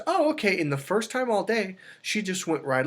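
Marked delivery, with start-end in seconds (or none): 0.1-0.6 lightly voiced niece, much higher; a hint of the niece giving in easily; niece's voice. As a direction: niece agreeing meekly, pitched up. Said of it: "She goes".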